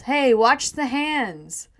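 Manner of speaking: slow, loud, drawn-out protest; indignant yell. Acted. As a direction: yell it from inside a bag, affronted. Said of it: "rustles in the bag and yells".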